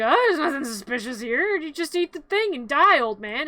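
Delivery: fake-innocent, pushing the soup on him; sly poisoner. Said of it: "And she's like".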